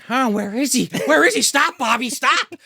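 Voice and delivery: high, increasingly loud panicked mom; mock frantic mother. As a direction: build from puzzled searching to high pleading. Mother searching, getting frantic.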